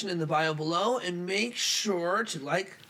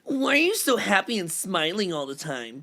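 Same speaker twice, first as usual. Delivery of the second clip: mild teasing fish; 2 semitones higher, 4 dB louder than usual. Acted. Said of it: "I'll read responses as voices".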